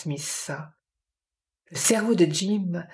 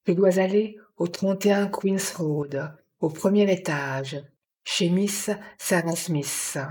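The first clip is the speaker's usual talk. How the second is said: mild monotone, reciting an address. A narrator's reading. Dazed woman tells Jim where she must go, monotone. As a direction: recite it by rote, slowing at the end. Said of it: "en reprenant sa voix monotone".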